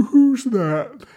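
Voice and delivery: high startled call; sudden high cry of surprise; startled boy voice. Acted. Tendril taps, Jack wakes.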